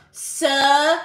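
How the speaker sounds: "Southern" loud, broken into SUH, thern; emphatic Southern. Shown as a demonstration. Streamer insists on the correction, "Southern" loudly said SUH-thern. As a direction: punch out "Southern" as two parts, SUH-thern. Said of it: "no, it's Southern".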